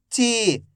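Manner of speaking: "ची" with a long, held ee; drawn-out long vowel. Shown as a demonstration. Teacher modelling for learners to repeat, "ची" drawn out. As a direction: stretch the vowel in "ची". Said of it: "खींच खींच के पढ़ेंगे".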